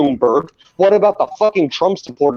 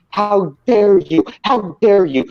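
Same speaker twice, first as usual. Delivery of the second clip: mocking Greta quote; 4 semitones higher than usual. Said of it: "lecture people about".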